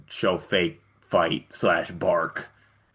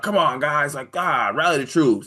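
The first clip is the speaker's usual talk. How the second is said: a hint of an eager teammate, a bit higher; mock rah-rah teammate; 7 semitones higher than usual. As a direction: lightly play the cheerleader. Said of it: "would be like".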